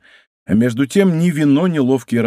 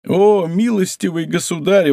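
raised, pleading wail of a frightened innkeeper; a mild pitiful plea to the angry guest; plaintive cry; 4 semitones higher than usual. Acted. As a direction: beg for mercy in a pitiful voice. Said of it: "самым жалобным голосом".

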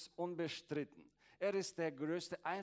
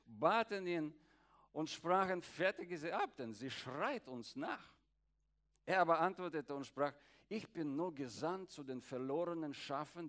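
scripture reading. Acted. Reads Matthew aloud.

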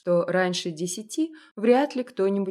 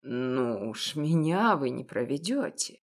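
put-on an elderly shopkeeper, knowing and gentle; a hint of a kindly old baker; old confectioner; 5 semitones lower than usual. Old confectioner speaks to Masha.

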